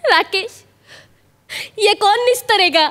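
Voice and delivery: hammed-up tearful plea with long pauses; put-on crying scene, halting; mock weepy mood. Shown as a demonstration. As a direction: play a wronged, weeping lover. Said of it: "रोना धोना लपडी हो ना mood".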